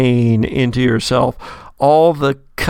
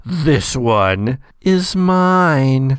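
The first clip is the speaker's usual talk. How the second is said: echoing possessive voice; slower than usual. Acted. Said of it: "echoes through your head and says".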